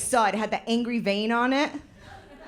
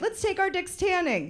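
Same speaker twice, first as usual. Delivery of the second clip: higher, casual buddy suggestion; a hint of bro voice; 8 semitones higher than usual. Guys in a group, higher casual bro voice. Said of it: "they're like".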